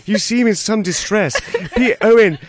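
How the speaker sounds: high, gentle, hesitant interviewer voice; Louis Theroux impression. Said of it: "Louis Theroux chatting to".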